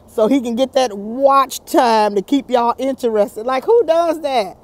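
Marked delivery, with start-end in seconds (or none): 0.1-3.5 key words drawn out; lightly dragged-out imitation; mock slow talking. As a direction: imitate someone stalling for time, stretching words. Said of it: "He talks very slow".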